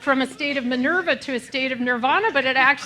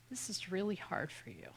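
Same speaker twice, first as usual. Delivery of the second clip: far softer, said to yourself under your breath; 3 semitones lower, 19 dB quieter than usual. Shown as a demonstration. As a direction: murmur it gently to yourself. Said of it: "under the breath to me".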